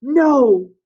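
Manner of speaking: very high, loud cry; high-pitched rage. A narrator's reading. Jack refuses Ralph's call, high-pitched enraged shout. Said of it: "high-pitched in rage".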